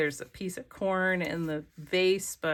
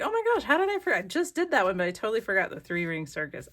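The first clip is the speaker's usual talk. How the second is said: retold surprise; 2 semitones higher, much faster than usual. Crafter recalling she forgot the circus page, flustered. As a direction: replay the oh-no moment of forgetting. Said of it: "I was like".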